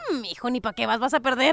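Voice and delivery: dismissive wife. Acted. Wife discouraging her excited husband, dismissive and low. Wife's deflating reply in joke.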